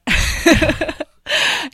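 loud burst of laughter; a big amused laugh; real laugh. Real, not acted. Laughs at the Southern aging joke.

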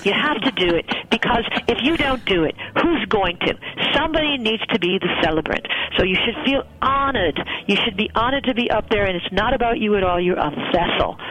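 a hint of a warm Australian friend; Australian accent. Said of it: "I'm gonna do her Australian accent".

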